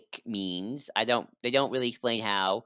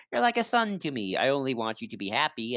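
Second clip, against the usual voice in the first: feigned motherly affection. Retold or imitated. Maleficent pretending to care for Riku, feigned affection. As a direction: act lightly as if you care. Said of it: "tries to pretend to be like".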